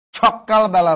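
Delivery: সকালবেলা said sok-kal-bela; punched kk inside সকালবেলা; double pressure. Shown as a demonstration. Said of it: "double pressure পড়বে".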